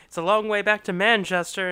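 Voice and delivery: lightly voiced chirpy bus driver. Bus driver rallies passengers for a song, lightly imitated. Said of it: "the bus driver goes".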